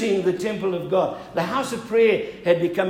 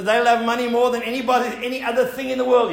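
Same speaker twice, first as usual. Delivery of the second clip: preaching at full force; 5 semitones higher, 8 dB louder, faster than usual. Real, not acted. Preaching build after joke.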